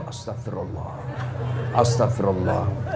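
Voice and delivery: very low, hushed prayer; istighfar at temptation. Acted. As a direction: murmur it to resist temptation, acted. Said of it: "kau nafsu". (istighfar lirih bernada rendah)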